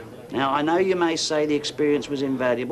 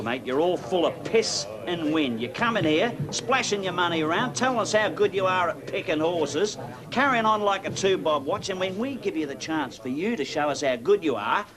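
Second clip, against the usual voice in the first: goading accusation, pitched up and climbing at the end; angry taunting; 4 semitones higher than usual. Acted. Pub regular accusing a stranger of bragging, angry and taunting. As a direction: needle him, building to a high jibe. Acted taunting quarrel over a bet.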